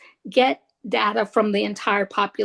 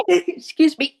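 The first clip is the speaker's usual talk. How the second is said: laughing; 7 semitones higher than usual. Real, not acted. Laughs after a sneeze.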